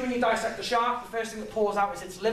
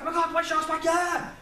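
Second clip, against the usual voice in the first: excited cheer; 8 semitones higher than usual. Retold or imitated. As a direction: celebrate the sharks coming home. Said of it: "And I was like".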